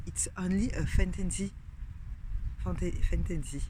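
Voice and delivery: apologetic French accent on "fantasy"; French-accented English. Real, not acted. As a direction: try the English "it's only a fantasy" in a thick French accent. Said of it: "Vous voyez mon accent anglais".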